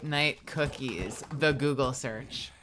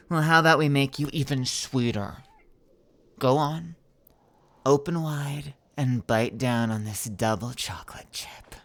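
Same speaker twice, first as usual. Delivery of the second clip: louder, pushy script reading; too loud; 2 semitones lower, 3 dB louder than usual. Acted. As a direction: read it too forcefully. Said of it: "we should do that softer".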